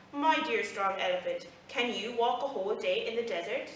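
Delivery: mock-sweet, lightly teasing camel; sarcastic. Camel teasing the boastful elephant, mildly sarcastic. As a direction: needle him with fake politeness. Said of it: "replied sarcastically".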